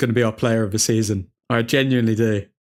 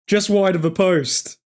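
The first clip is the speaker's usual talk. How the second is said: slightly raised, lingering excitement; still worked up; 5 semitones higher than usual. Real, not acted. Fan still reeling from the near miss, mildly excited. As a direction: say it while still buzzing from the chance.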